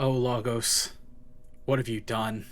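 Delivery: hushed, very quiet, low stunned murmur of dismay. As game master, voicing Socks standing there in shock at Lagos: shocked. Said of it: "stands there in shock and goes".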